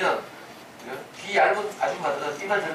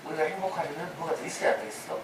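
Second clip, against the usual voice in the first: a hint of a coaxing serpent, softer; tempting whisper; 6 dB quieter than usual. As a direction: murmur the temptation gently. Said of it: "이렇게 속삭여요". (살짝 부드럽게 속삭이는 유혹)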